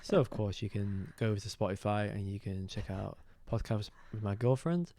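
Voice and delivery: polished announcer read; smooth cabin-announcement delivery; flight attendant voice. Pretend. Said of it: "You sound like a flight attendant".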